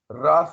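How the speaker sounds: "ra" as the sound of R. Shown as a demonstration. Teacher showing what R pronounces, a clear "ra". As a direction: voice the letter R as "ra". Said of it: "R pronounces".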